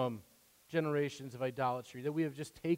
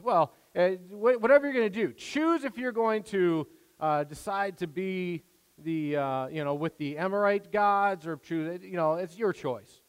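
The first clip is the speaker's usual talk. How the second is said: careless reading; 3 semitones higher, 4 dB louder than usual. Pretend. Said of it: "if you read this kinda just haphazardly".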